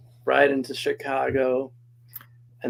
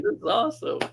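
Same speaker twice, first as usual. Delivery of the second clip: excited quote; 14 semitones higher than usual. Retold or imitated. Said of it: "I was like".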